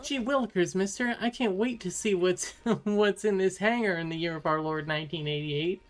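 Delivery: put-on high, eager golly-gee kid voice; wholesome 1950s kid. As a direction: play an eager old-timey boy.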